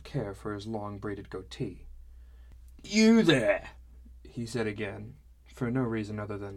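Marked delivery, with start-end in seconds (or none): 2.8-3.7 put-on loud, high drunken hail; calling out. A drunk dad hailing the new guy across the tavern, loud. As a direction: bellow it across the room.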